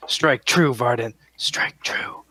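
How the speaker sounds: fading into a breathy whisper; whispered encouragement. Acted. Drow blessing Varden before a fierce fight, whispered at the end. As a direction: urge an ally on, ending in a hushed whisper. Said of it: "I'm gonna whisper something in Drow".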